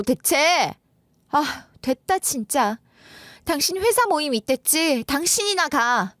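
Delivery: acted wife, fed up and scornful; disgusted wife. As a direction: throw it back at him and walk away from it. Acted wife ends quarrel, refuses outing.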